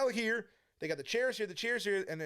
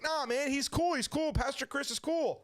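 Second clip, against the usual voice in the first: coaxing; 6 semitones higher than usual. Retold or imitated. Friend persuades him to meet pastor.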